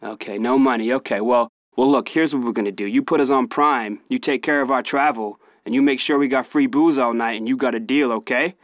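brash, pushy fake Californian; lightly voiced American rapper demands; cocky American accent. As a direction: bargain with put-on swagger. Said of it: "it kinda went something like this".

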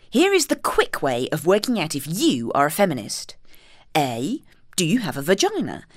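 grand, theatrical reading voice; posh reading voice. Shown as a demonstration. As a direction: read it out in a posh voice. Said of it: "I'll do it in my posh reading voice".

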